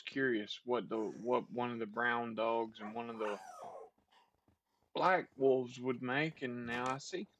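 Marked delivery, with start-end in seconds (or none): 4.9-7.3 talking through sudden hiccups; words broken by hiccups. Real, not acted. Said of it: "I got the hiccups all of a sudden".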